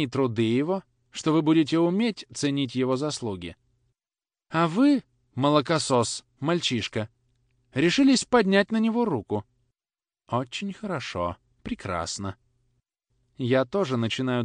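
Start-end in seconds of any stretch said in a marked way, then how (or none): 4.5-9.4 high, loud outraged reproach; indignant scolding. Acted. Grandmother scolds the boy.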